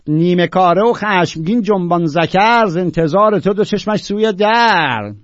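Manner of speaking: emphatic verse declamation; poetry recitation. Acted. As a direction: declaim the lines with measured weight. Recites classical verse aloud.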